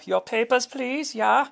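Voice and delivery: high put-on border guard voice; a lightly voiced stern official; mock official. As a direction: demand papers like a stern official. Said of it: "uh, you know".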